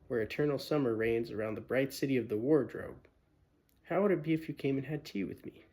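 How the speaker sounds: polite, nervous faun, quick at first; a timid faun asking carefully; shy faun. Acted. Fawn politely questions Lucy, lightly voiced nervous faun. Tumnus invites Lucy to tea.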